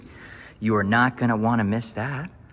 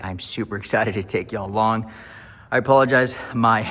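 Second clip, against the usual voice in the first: out of breath after running around; breathless from running through the house. Real, not acted. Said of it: "I'm kind of out of breath".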